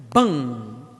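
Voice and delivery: crash sound effect. Retold or imitated. Mimicking a car crash.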